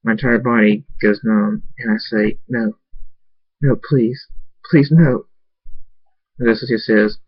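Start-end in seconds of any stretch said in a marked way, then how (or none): 2.5-5.3 pleading. Acted. Begging to keep Abel.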